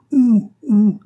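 loud, high "ouh, ouh" holler; high hooting cry; shouted call. A narrator's reading. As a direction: call out like a rider in pursuit. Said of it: "la voix du cavalier qui criait".

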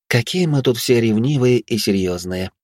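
slow, mocking drawl; snorting tease. Anna snorts at the jealous girls, slow and mocking. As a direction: drag it out with a scoff. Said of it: "фыркнула Анна".

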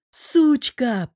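high, loud snarling insult; growled curse. A narrator's reading. Wounded Zhorik curses Tereza in a furious snarl. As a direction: spit the word out in fury. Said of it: "прорычал он".

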